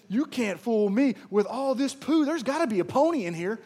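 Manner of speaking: put-on bright, loud, laughing child's certainty; gleeful boy. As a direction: deliver the punchline with glee. Boy's punchline, cheerful.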